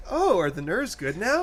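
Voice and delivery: high, sing-song fake innocence; patronizing. Shown as a demonstration. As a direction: ask it sweetly, dripping with sarcasm. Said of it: "That voice sounded patronizing and satirical".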